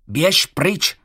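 vyšší, hlasitější výkřik; zvolání. A narrator's reading. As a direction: zvolat rázně na netvora. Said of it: "zvolal jsem". (Jacob křičí na netvora, vyšším hlasem)

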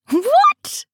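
high, loud "what" of disbelief; astonished high yelp of a question; incredulous. A narrator's reading. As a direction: blurt it out in astonishment. Friend splutters at absurd confession.

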